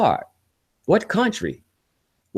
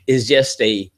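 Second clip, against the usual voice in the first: ordinary talk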